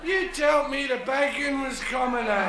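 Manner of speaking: a hint of a cheeky Glaswegian; lightly voiced wee man, a bit aggrieved; wee apostle. Wee apostle moaning to the big apostle, mock grievance.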